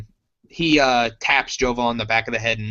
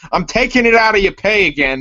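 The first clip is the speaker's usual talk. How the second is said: stern scolding; 6 semitones higher, 5 dB louder, faster than usual. Acted. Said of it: "And he goes".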